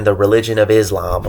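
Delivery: slight accidental southern accent on Islam. Real, not acted. Explaining a term to listeners, slipping into a southern accent. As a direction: say it with a hint of southern twang. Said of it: "a southern accent there".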